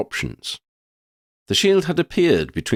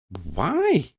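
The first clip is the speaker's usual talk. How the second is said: flummoxed; 6 semitones higher than usual. A narrator's reading. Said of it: "Lydia was flummoxed".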